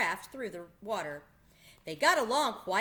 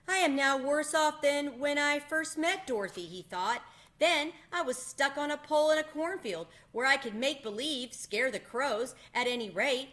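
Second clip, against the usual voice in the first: higher, lightly voiced sad Scarecrow; a stranded scarecrow thinking aloud; Scarecrow's voice; 6 semitones higher, 4 dB louder than usual.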